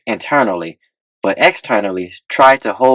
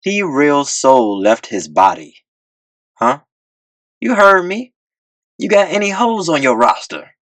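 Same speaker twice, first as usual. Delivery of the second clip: put-on smooth older chairman; 6 semitones higher than usual. A narrator's reading. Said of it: "a smooth older man named Velvet Moses".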